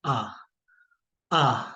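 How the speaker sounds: French आ, open and long. Shown as a demonstration. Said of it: "French में हम इसको बोलते हैं". (फ्रेंच उच्चारण में आ)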